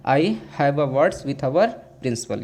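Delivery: slow, word-by-word example; slow classroom dictation; slow dictation pace. Shown as a demonstration. Teacher dictating an example sentence.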